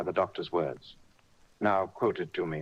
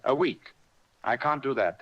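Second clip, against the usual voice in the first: crying out; 7 semitones higher than usual. A narrator's reading. Captain hearing he must lie a week, crying out. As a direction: protest in alarm at the news. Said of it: "he cried".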